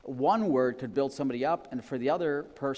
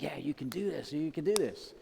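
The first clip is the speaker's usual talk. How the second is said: gentle encouragement; 2 semitones higher than usual. Retold or imitated. Encouraging a friend who needs a kind word, gentle. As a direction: cheer them on kindly. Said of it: "it's like".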